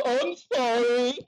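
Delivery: mock apology. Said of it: "everybody's gonna be so effing apologetic".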